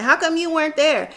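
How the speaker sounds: a hint of Sarah asking again; Sarah impression. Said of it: "You know how Sarah is in her black accent".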